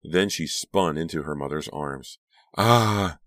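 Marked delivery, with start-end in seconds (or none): 2.6-3.2 loud, high "ah" of pain; sharp pained outcry; cry of pain. A narrator's reading. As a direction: yelp as if hurt. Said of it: "Delia cried in pain".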